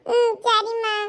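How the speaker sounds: put-on high child voice, giving in; small child's reluctant okay; obedient child. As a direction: agree like a dutiful kid. Child agrees to mother's instructions.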